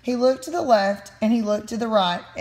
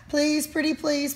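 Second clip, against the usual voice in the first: pleading; 5 semitones higher than usual. Acted. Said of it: "pleaded the mice".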